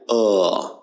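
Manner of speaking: short weak "uh"; schwa sound. Shown as a demonstration. Teacher demonstrating the weak schwa sound, "uh" unstressed. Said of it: "it sounds like".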